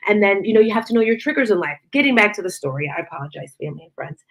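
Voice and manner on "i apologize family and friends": hushed apology. Real, not acted. Apologizing for tangent.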